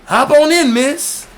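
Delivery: put-on a high, loud, oily old man inviting; creepy friendly. Old Joe inviting the waitress into his car, high and oily. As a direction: sing out the invite too sweetly.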